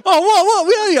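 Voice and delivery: mock frantic girlfriend with laughter around it; imitating panicked girlfriend. Girlfriend's alarmed reply imitated.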